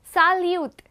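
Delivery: Salute said as sal-yoot, falling; repeated salut. Shown as a demonstration. Teacher repeats Salute so students copy it. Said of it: "we're gonna repeat it again".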